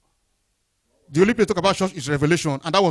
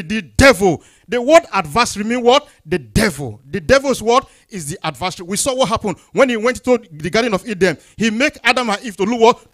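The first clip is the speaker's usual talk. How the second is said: loud, emphatic sermon delivery; forceful preaching; 3 semitones higher, 7 dB louder than usual. Acted. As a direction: hammer out the warning to the congregation.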